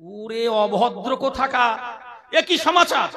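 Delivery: loud, outraged teacher's rebuke; angry scolding. Retold or imitated. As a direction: scold the rude pupil with outrage. Teacher scolds rude student. (রাগী শিক্ষকের ধমক)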